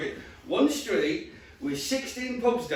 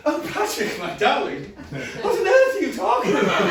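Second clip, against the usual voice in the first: posh mum voice; 5 semitones higher, 4 dB louder than usual. Retold or imitated. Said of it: "she's actually quite posh".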